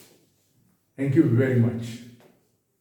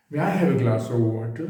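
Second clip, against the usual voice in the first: slow, with "glass" and "water" stressed; gentle stressed request; 2 semitones lower than usual. Shown as a demonstration. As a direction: lean gently on "glass" and "water", rising at the end. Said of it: "मेरी tone कैसी?". ("glass" और "water" पर ज़ोर देकर धीमी विनती)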